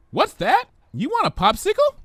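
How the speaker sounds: very high, giddy sing-song; bubbly Pinkie voice. Acted. Pinkie playing with words at the market, high and giddy. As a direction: bounce on every syllable.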